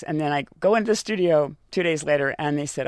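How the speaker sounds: ordinary talk, nothing marked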